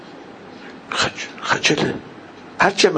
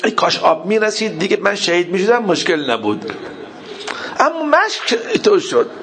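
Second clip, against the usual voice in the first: raised, wailing regret; tearful lament; 6 semitones higher than usual. Retold or imitated. Abbas wishing the water had arrived, tearful lament. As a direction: let grief lift the voice high.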